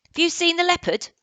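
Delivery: put-on high, loud boyish question; Indian boy's voice. Boy in Indian costume asks Barney, high and loud. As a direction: voice the Indian boy asking eagerly. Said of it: "asked the Red Indian".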